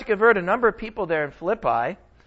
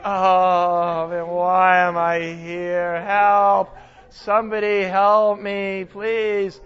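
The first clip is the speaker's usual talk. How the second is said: a hint of a whiny prisoner, slow; lightly voiced grumbler begging for help; mild mock self-pity, slow; mock complaining; 2 semitones lower, much slower than usual. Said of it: "complaining, grumbling".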